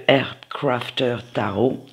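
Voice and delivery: deck name said the English way, with an English accent. Shown as a demonstration. Naming her tarot deck for viewers, in a light English accent. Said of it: "Excusez mon accent, euh, anglais".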